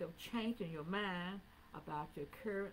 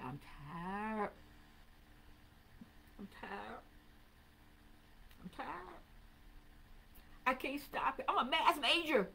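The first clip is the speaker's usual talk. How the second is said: retold anguished cry; 7 semitones higher, 4 dB louder than usual. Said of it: "How I cried".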